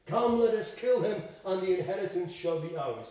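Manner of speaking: eager conspirator, lightly acted; urgent plotting. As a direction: voice the tenants egging each other on. Acted quote of plotting tenants.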